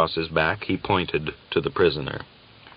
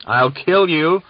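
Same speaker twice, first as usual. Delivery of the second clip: much higher, louder enraged yell; murderous threat; 10 semitones higher, 7 dB louder, slower than usual. A narrator's reading. Gregor rushes at Uryupin, enraged yell. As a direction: scream it as you lunge.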